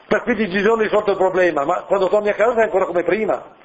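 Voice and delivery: usual speaking voice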